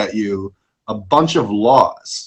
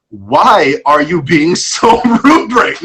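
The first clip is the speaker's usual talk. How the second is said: laughing; 3 dB louder than usual. Retold or imitated. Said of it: "I kept thinking".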